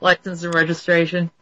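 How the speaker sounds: emotionless police officer. Acted. Imitating American police at a traffic stop, emotionless. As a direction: softly recite it like an unmoved officer. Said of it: "it's sort of emotionless".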